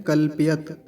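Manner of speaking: कल्पयत with a half प, clipped into य; wrong half pa. Shown as a demonstration. Teacher demonstrating the common half-प error in कल्पयत. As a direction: show the half-प mistake. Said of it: "इसको आधा करके कैसे बोलते हैं".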